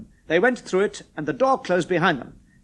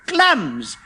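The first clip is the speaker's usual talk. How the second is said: calling out; 9 semitones higher, much slower than usual. A narrator's reading. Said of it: "and called out".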